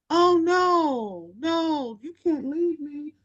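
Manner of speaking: high, pleading protest; dismayed old lady. Retold or imitated. Audrey hearing Tony is leaving: high dismayed plea. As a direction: beg her not to go.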